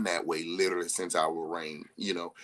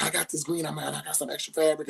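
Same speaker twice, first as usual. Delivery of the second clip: imitating her friend; 7 semitones higher, faster than usual. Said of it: "she was like".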